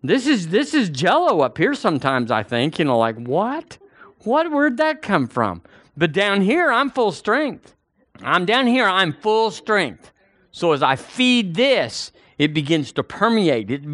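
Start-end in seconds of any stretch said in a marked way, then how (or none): 3.2-5.6 much higher, puzzled what; mock confusion. Preacher acting his own confused head, high puzzled. 6.7-10.1 higher, slow, each word weighted; emphatic declaration. Real, not acted. Preacher to congregation, slow high declaration.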